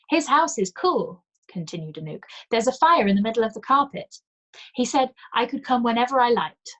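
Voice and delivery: put-on high, loud, eager little girl; bubbling over like a child; excited child. A narrator's reading.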